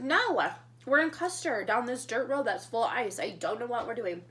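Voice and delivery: retelling her panic to a friend; flustered answer. Retold or imitated. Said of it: "I said".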